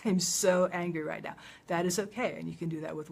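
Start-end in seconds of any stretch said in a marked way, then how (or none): 0.0-1.3 loud, drawn-out stress on "so"; demonstrated anger, loud and emphatic; controlled anger. Shown as a demonstration. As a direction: vent it firmly without lashing out. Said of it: "Without, you know, being tough or mean".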